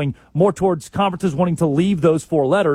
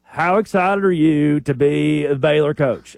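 softball question; 2 semitones lower, slower than usual. Retold or imitated. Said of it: "getting softball after softball".

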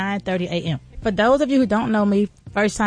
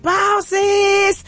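shouted greeting; 10 semitones higher than usual. Retold or imitated. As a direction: belt the greeting like opening a live show. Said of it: "I was doing my post".

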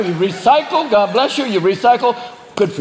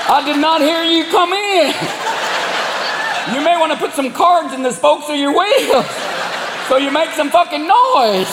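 redneck drawl; 7 semitones higher than usual. Pretend. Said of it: "I made the raccoons Irish".

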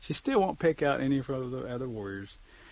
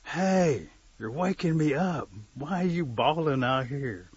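higher, louder grumpy little creature; small creature's loud protest; little mole voice; 3 semitones higher, 7 dB louder, slower than usual. Acted. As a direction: complain at being woken up. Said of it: "he hears a little voice say".

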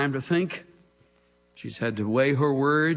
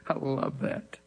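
ordinary talk, nothing marked

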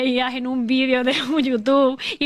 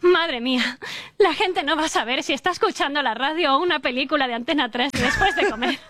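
mock radio voice; 2 semitones higher than usual. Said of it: "Ahora tengo una voz radiofónica".

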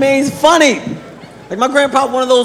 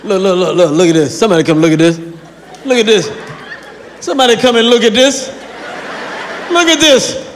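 fussing grandpa. Retold or imitated. Grandpa yells at cat from the screen door. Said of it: "just complain and shit".

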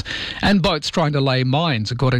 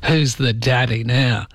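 mock triumph; slower than usual. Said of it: "You'd go".

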